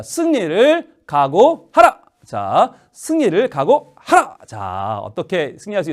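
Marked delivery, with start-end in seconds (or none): 0.0-2.0 slow, high-pitched proclamation; drawn-out, emphatic slogan; rallying cry. Shown as a demonstration. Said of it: "외쳐봅니다". 2.9-4.4 slow, raised-pitch slogan; rallying cry. Shown as a demonstration. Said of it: "외쳐봅니다".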